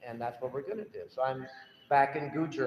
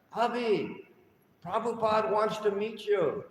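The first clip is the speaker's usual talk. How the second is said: hurried, higher and breathless call; rushing up out of breath to fetch him; mock breathless; 7 semitones higher, 3 dB louder than usual. Devotee runs up to Avi, breathless and urgent. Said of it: "out of breath".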